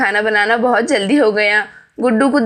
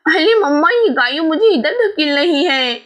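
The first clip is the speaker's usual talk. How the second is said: upset cry for mum; 5 semitones higher than usual. Acted. Little girl complains to her mother, higher and urgent. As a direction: call out, being shoved away. Child pushed away by cow.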